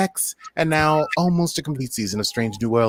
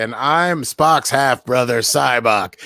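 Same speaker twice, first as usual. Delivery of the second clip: put-on British accent; 4 dB louder, slower than usual. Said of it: "I was doing a British accent".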